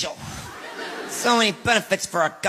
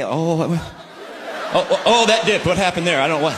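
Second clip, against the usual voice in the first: mock panic. Husband mock-panics over marriage stocks.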